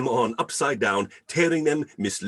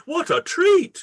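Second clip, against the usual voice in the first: very high, loud, bright exclamation; delighted cry; 6 dB louder, slower than usual. Acted. Fred welcomes his uncle with a delighted cry. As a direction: burst out in pure delight.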